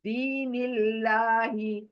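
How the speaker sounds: दीनिल्लाही with a light thin ल्लाह, lips in a smile; thin Allah. Shown as a demonstration. Teacher shows a thin Allah to the student. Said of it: "जेर आई तो अल्लाह बारीक करके पढ़ेंगे".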